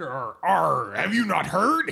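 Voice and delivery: character voice retry. Acted. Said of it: "A little high".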